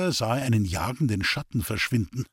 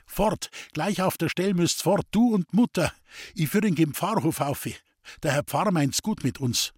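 urgent; 5 semitones higher than usual. Acted. Roman urges them to flee.

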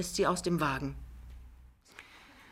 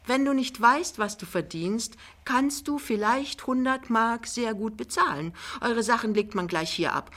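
put-on raised-pitch, managing older lady; lightly voiced mother-in-law, brisk; 5 semitones higher than usual. Mother brushes off son and instructs Lämmchen, brisk. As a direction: retort smoothly and move on to orders.

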